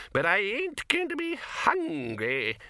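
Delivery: put-on very high, slow, quavering old man; the stubborn old codger drawls; high slow old man's defiance.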